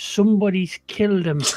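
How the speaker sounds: very hushed, confiding half-whisper. Leaning over to a character and secretly telling him news: half-whispering very quietly. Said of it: "I lean over and whisper to him really quietly".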